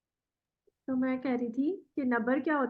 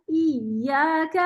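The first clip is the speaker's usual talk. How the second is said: ایاک slow with a lift on the ی; nabr demo; 3 dB louder, much slower than usual. Shown as a demonstration. Teacher models nabr before student repeats. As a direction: push the volume up on ی in ایاک. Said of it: "پڑھ کے دکھائیں".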